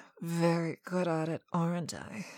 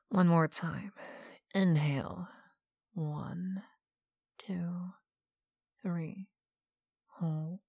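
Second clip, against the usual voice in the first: usual speaking voice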